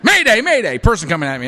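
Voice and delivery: mock panic. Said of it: "I'm thinking things like".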